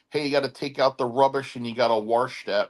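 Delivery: put-on light Ohio-Pittsburgh accent, wash as "warsh"; imitated Pittsburgh accent. Imitating Pittsburgh locals giving orders, light Pittsburgh accent. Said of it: "They're like".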